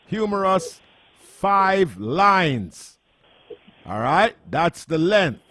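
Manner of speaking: excited announcer pitch. Real, not acted. Host's excited on-air call to listeners.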